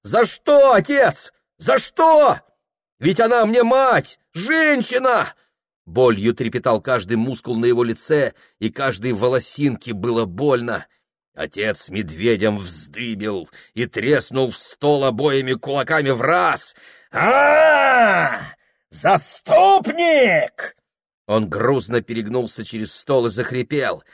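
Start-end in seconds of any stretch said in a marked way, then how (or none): 0.0-5.3 high, shaking outcry; trembling cry. A narrator's reading. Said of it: "весь он содрогался". 17.1-20.8 high, slow bellowed scorn; father roars at his son; furious roar. A narrator's reading.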